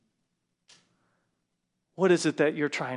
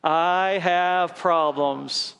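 slow group recitation; 4 dB louder, much slower than usual. Shown as a demonstration. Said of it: "Go ahead".

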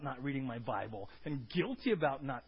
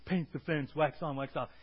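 louder, annoyed quote of the chores; frustrated listing; 5 dB louder than usual. Retold or imitated. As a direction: imitate a fed-up kid repeating chores. Kid repeating Miyagi's chores.

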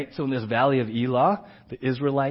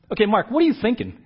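loving challenge; 7 semitones higher, 5 dB louder, faster than usual. Retold or imitated. Friend challenging again.

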